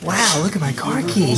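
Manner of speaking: lightly done celebrity impression; playful mock amazement; Owen Wilson. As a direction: marvel in a mock catchphrase voice. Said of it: "So I'm Owen Wilson".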